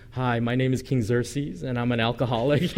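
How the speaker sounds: lightly voiced king at a support group, laughing; a hint of a sheepish confession; joking Xerxes. Pastor jokes of the king at a recovery meeting, light mock confession. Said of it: "just picturing King Xerxes going".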